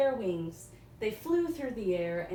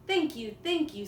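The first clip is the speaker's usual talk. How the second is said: higher, grateful and eager; Coyote voice; 6 semitones higher, 4 dB louder than usual. Acted. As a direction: gush thanks like an eager coyote.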